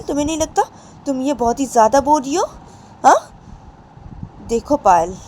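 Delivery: angry father. Acted. Father scolds wife Payal.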